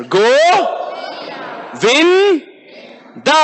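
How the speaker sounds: Go, Vin, Da each called separately with long pauses; one syllable at a time. Shown as a demonstration. Preacher leads class one after another, separated syllables. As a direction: call out each syllable, then wait. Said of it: "Let's do one after another".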